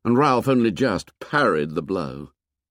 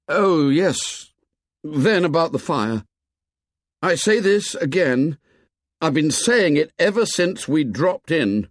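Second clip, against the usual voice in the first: lightly voiced boy, higher, earnest; Ralph pleading; 6 semitones higher than usual. A narrator's reading. Ralph confronts Jack's painted tribe, earnest boy voice. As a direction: plead firmly with the savages.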